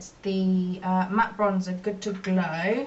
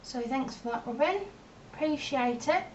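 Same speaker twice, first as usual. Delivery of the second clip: lilting mock gratitude, pitched up at the end; sarcastic thanks; 4 semitones higher, 3 dB quieter than usual. Real, not acted. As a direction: thank the little culprit with dry irony. Mock thanks to daughter over mess.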